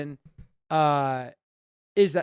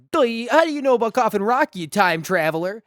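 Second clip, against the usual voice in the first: goofy dumb-guy mock voice, pitched up; mocking Jeff; 5 semitones higher than usual. Podcaster mocking Jeff's question to Steven, in a goofy high voice. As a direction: play Jeff as a clueless dope, higher. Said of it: "And Jeff's like".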